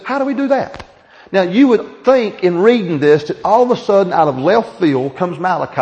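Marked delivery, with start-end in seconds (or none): 0.0-0.8 mock whiny question. Mocking the people's reply.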